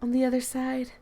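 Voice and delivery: game character reading her poem aloud; Monica's voice. Acted. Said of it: "Supposed to be reading it in Monica's voice".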